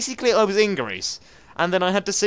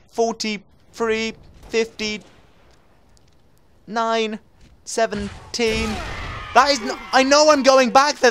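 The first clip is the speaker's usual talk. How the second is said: drawn-out shout; 4 semitones higher, much slower than usual. Real, not acted. Drawn numbers, then shouting.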